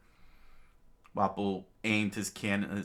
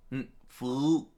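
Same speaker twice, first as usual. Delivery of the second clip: a louder, higher scornful yell; mock royal scream; screaming king; 6 semitones higher, 5 dB louder than usual. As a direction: snap it at him like a tyrant. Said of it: "the king screamed out".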